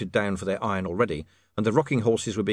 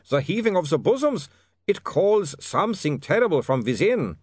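put-on higher, accented vampire in torment; anguished vampire; 10 semitones higher, 4 dB louder than usual. Otto explaining his vampire urge to Saccharissa, anguished. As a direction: confess the hunger, barely holding on.

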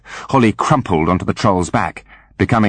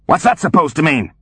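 gruff bark; 7 semitones higher than usual. Acted. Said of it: "barked Root".

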